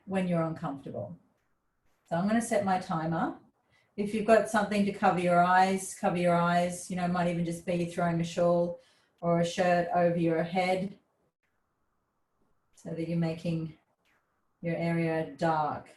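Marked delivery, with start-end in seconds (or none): 4.0-15.9 calm, slightly lowered yoga voice; restorative yoga guidance. Real, not acted. Yoga teacher helps class darken their space and settle, calm guidance. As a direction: settle them into the pose, unhurried and gentle.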